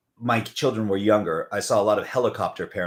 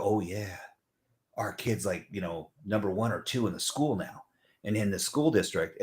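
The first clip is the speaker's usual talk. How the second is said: casual boast; 4 semitones lower, 8 dB quieter than usual. Acted. Parents casually boasting about kids.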